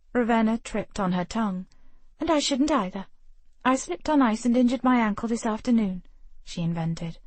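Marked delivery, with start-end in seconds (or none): 2.2-6.0 flustered excuse. Acted. Ravenna inventing an excuse.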